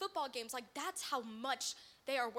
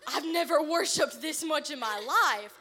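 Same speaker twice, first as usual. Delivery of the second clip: louder, slower realization; dawning shock; 2 semitones higher, 15 dB louder than usual. Retold or imitated. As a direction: let the truth sink in. Same words, shocked realization.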